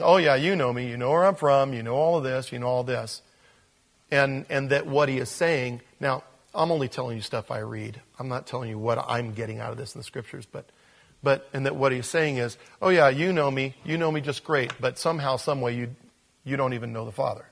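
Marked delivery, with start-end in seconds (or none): 0.0-3.2 sarcastic. Retold or imitated. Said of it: "sarcastic with them". 12.8-17.5 sarcastic. Retold or imitated. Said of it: "sarcastic with them".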